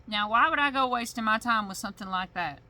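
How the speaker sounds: put-on sheriff's accent. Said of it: "my accent got all thick".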